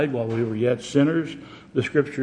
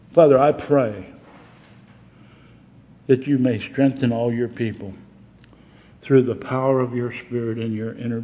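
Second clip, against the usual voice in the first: prayer. Acted. Pastor prays over the congregation, earnest prayer.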